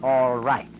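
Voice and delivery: loud mocking echo of his reply; mocking quote. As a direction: parrot his curt answer with scorn. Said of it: "And you reply".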